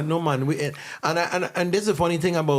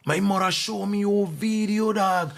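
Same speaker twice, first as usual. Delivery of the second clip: put-on higher, eager kid voice; excited kid; 6 semitones higher than usual. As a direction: voice a starstruck fifth grader. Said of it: "when they realized".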